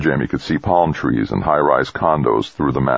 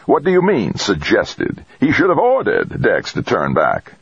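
angry; 7 semitones higher than usual. A narrator's reading. Angry tycoon berates mission chief.

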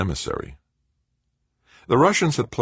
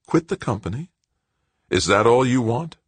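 can't believe what he hears; incredulous; 8 semitones higher than usual. Acted. Stepfather to blackmailing son, disbelieving. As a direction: pitch jumps up in disbelief.

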